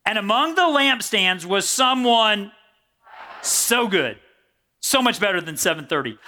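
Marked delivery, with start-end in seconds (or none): 0.0-2.5 measured, solemn reading of the passage; scripture reading. Acted. Preacher reading Revelation to the church, measured and solemn. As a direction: read the verse to the congregation.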